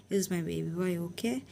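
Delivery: put-on soft, gentle check on a little child; tender father. Father hugging his little son, softly tender.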